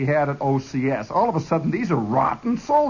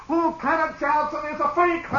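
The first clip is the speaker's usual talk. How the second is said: hollered taunt; 11 semitones higher than usual. Retold or imitated. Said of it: "somebody hollers".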